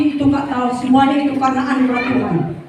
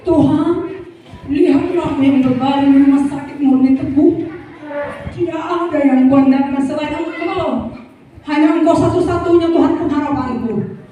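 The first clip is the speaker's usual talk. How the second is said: earnest prayer; 2 semitones higher than usual. Retold or imitated. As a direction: pray from the hospital bed, offering yourself. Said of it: "saya katakan".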